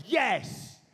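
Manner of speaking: curt British rock star, drawn-out single words; exaggerated one-word rock-star rulings; a rock singer. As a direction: pronounce each verdict like an imperious star. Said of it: "a rock singer talked like this"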